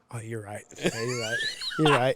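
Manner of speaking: caving in. Retold or imitated. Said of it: "you went".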